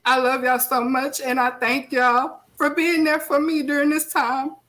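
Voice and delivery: real tearful thanks, pitch lifted; crying. Real, not acted. Grieving host thanking viewers for being there, tearful. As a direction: give heartfelt thanks while holding back sobs. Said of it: "I was not gonna cry".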